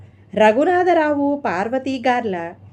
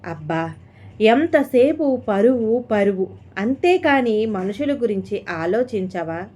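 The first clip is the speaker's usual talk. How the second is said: shouting. Acted. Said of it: "అరిచాడు విహారీ".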